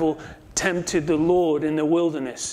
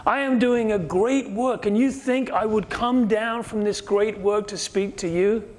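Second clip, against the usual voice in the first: higher, stress on am, incredulous retort; indignant Nehemiah; 5 semitones higher than usual. Retold or imitated. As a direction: toss it back as a busy man refusing. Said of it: "Nehemiah understood something".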